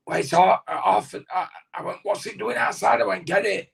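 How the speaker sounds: high, baffled protest; retelling an outraged demand with a lifted voice; incredulous. Retold or imitated. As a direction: pitch it up in disbelief at his friend. Arguing over the ripped twenty pound note.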